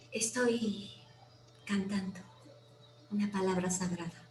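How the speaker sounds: faint, barely voiced reply; a tiny thread of voice, hardly there. Terrified passenger whispers to the robbers, a thread of voice. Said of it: "casi también con un hilito de voz".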